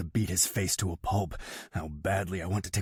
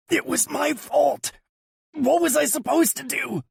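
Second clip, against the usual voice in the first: high, louder plea of the brother; guilty pleading; 6 dB louder than usual. A narrator's reading. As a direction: beg to be understood.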